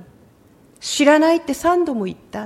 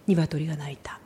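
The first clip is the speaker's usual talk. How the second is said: hushed, dramatic whisper; a whisper that makes the room lean in; whispered climax; 10 semitones lower, 11 dB quieter than usual. Acted. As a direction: drop to a breathy whisper for the reveal. Dramatic climax of Peter story.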